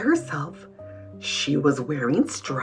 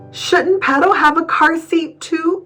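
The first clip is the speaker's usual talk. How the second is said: higher, fretful question; worried; 7 semitones higher than usual. A narrator's reading. Wimberly fretting over a car seat for her doll, worried. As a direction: ask it anxiously, pitched up. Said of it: "she worried".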